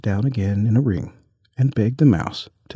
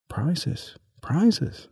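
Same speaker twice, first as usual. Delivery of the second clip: confused calling out; 7 semitones higher, 4 dB quieter than usual. A narrator's reading. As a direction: softly pipe up with questioning lifts. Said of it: "calling out in a confused way".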